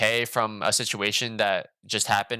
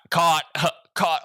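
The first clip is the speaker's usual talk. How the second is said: laughing; 4 semitones higher, 4 dB louder than usual. Retold or imitated. Caught by the girl's message.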